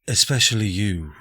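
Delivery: put-on Ella's intended accent, settled; corrected character accent. Game master restarting Ella's line, in the corrected accent. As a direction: redo it in Ella's proper accent. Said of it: "I talk with this accent".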